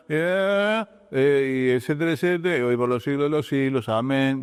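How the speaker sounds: careless gabble. Retold or imitated. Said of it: "¿Qué te está diciendo? No es importante".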